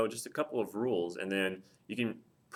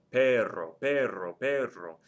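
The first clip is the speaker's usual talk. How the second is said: perro repeated, stress on PER; perro with a firm stress on the E; stressed first syllable; 2 semitones higher, 3 dB louder, slower than usual. Shown as a demonstration. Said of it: "The stress is on the first to last syllable".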